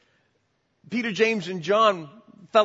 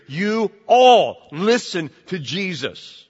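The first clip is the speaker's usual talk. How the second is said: commanding Father; 2 semitones higher, 6 dB louder, slower than usual. Retold or imitated. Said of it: "he tells everyone".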